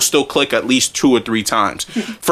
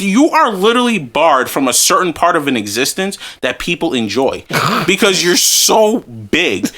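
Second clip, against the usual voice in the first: disgusted; 4 semitones higher than usual. Retold or imitated. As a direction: drag each word out in retold disgust. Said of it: "complete fucking disgust".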